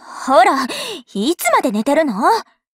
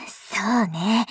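whisper; 9 semitones lower, 8 dB quieter, much slower than usual. Acted. Plotting under her breath.

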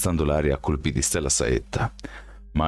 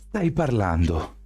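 higher, slow strained question; strained disbelief; 5 semitones higher, slower than usual. A narrator's reading. Miles parries Daniel's arrow, slow strained disbelief. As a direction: gasp it out in disbelief. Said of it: "grugnì Miles".

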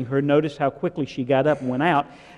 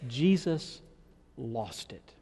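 "Jesus" then a much softer, sinking "lost it"; breaking down; 7 dB quieter, slower than usual. Shown as a demonstration. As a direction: let "lost it" fall away to almost nothing. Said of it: "Let's change it".

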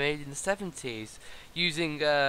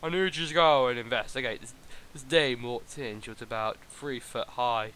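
noir detective; 4 semitones lower than usual. Acted. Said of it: "a man there who looks like a detective".

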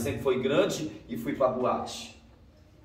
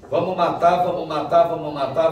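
mob threat; 4 semitones higher, 8 dB louder than usual. Retold or imitated. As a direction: shout it like an angry crowd. Gang threatening to kill him.

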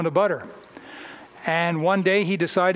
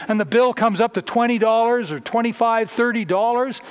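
louder, higher challenge to the congregation; mock-indignant preaching, louder and higher; rising preaching; 5 semitones higher, 5 dB louder than usual. Real, not acted. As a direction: press them hard on where their money goes.

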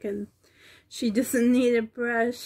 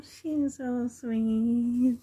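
slow cooing; much slower than usual. Real, not acted. Cooing over doll.

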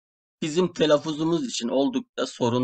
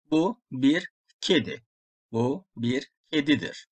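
ordinary delivery

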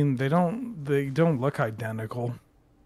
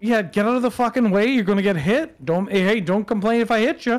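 raised, mock golfer yelling; scaring off a bear; 6 semitones higher, 4 dB louder than usual. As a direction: shout the bear off the course. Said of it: "yelling at a bear".

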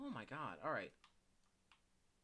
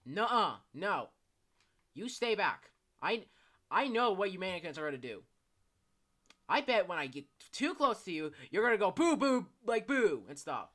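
nervous; 5 semitones higher, 14 dB louder than usual. Real, not acted. Scared gamer warding off mannequins.

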